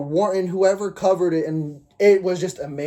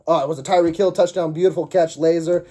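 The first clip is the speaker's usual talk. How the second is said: jittery; 3 dB louder than usual. Real, not acted. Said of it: "sorry, I'm jittery. I'm running through it".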